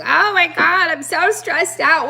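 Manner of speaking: hammed-up stressed wail; mock stressed-out cry. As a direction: play it up like you're frazzled. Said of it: "We're like".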